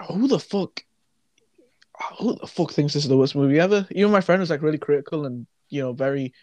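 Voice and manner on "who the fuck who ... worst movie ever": hushed incredulous question; a hushed aside of disbelief; whispered disbelief. Real, not acted. Incredulous rant.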